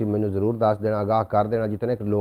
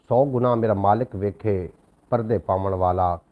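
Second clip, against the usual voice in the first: slow, raised, devotional verse recital; louder, slow devotional recitation; poem recitation; 5 dB louder than usual. Acted. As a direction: recite it like a sung Sufi couplet.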